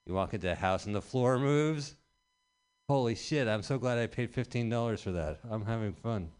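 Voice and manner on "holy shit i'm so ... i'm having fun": sarcastic delight. Acted. Mock fun house amazement.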